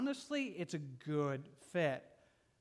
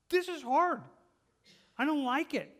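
anguished prayer; 8 semitones higher, 5 dB louder than usual. Acted. Believer voicing prayer to Jesus.

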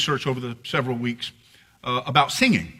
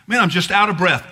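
sigh, then higher exasperated complaint; mock exasperated; 4 semitones higher, 4 dB louder than usual. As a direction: act out being fed up after a big exhale. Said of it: "we tend to go".

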